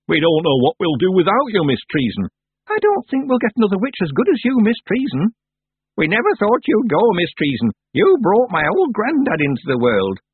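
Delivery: loud, emotional village folk; a hint of grieving well-wishers; tearful villagers. A narrator's reading. Villagers mourn the departing witch.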